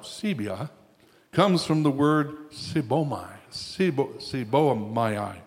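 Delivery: slurred through a retainer; stumbling over Greek with a retainer in; wearing a retainer. Real, not acted. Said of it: "It's not coming out. My retainer doesn't speak Greek".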